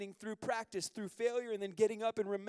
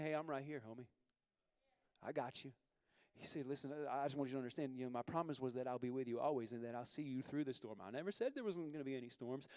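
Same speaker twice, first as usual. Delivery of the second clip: calm the frightened friend; reassuring God; 3 semitones lower than usual. Pretend.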